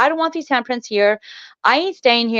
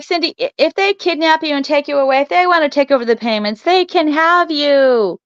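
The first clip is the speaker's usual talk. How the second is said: teasing husband; 4 semitones higher than usual. Retold or imitated. Husband voiced teasing wife.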